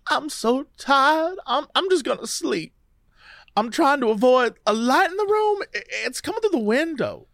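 a hint of Louisiana in a dazed recollection; Louisiana accent. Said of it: "read her in a Louisiana accent".

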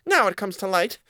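squeaky mouse realizing it, steadier; high mouse voice. A narrator's reading. Mouse line redone.

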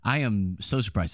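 slow, deadpan sarcasm; sarcastic. Real, not acted. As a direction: feign surprise, dragging the words out. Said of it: "That's sarcasm".

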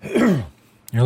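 clearing a cough from the throat. Real, not acted. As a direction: talk through a coughing fit. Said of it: "I'm sorry I'm coughing so much".

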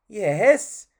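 high, loud "yes"; eager reply. Acted. Puppet urging the clown on, high and loud.

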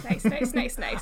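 soft repeated murmur; quiet murmur. Real, not acted. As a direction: murmur it softly.

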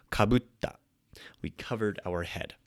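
hushed demo of the past tense; whispered example. Shown as a demonstration. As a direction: whisper "Kabutta. We covered our head.".

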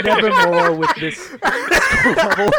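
hammed-up Poe. S2 as Poe, theatrical boast.

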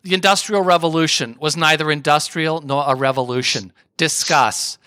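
lightly put-on thick New York accent; Linda Richman. TV host introduces another topic, in a mock New York accent. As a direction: do a New York talk show host impersonation. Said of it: "I'm gonna do my best, uh, Linda Richman, uh, impersonation".

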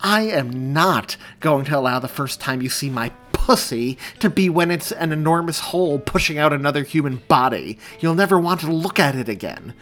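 high, loud tirade; heated, emphatic protest; indignant refusal. Acted. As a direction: refuse vehemently. Angry refusal during labour.

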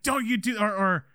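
high, indignant imitation of an angry father; hammed-up warning; mock confrontation.

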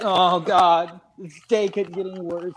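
mock woe-is-me sulk; pouting. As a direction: whine it lightly, imitating your own pout. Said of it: "started pouting and like".

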